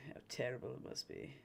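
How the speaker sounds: low, hushed mock pity; quiet mock lament. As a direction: let the pity sink away softly on TERRIBLE. Mock lament, repeated under breath.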